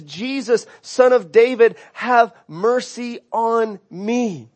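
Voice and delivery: slow, pleading prayer; prayerful plea. Retold or imitated. Preacher voicing the blind beggar's plea, slow and pleading. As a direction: draw out have mercy on me, pleading. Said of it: "His, his prayer is".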